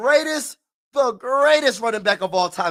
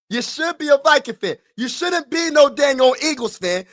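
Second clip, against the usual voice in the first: higher-pitched mock-stern scolding; retold scolding; 5 semitones higher than usual. Dad telling his son off for not backing the Vikings, retold scolding. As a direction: insist it like a dad laying down the law.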